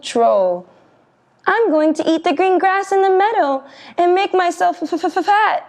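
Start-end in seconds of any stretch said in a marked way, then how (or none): 1.5-5.6 stuttering scared goat. Acted.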